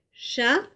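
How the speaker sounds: Chaperon in three separate beats cha-pe-ron; syllables clapped. Shown as a demonstration. Teacher repeating Chaperon clapped for children. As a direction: clap it out again, one beat per syllable. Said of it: "Je le refais".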